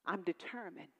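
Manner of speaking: soft, low resolve to God; quiet vow. Shown as a demonstration. Preacher's first quiet vow of determination to God, hushed. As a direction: say it softly, inward. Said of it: "I began to say".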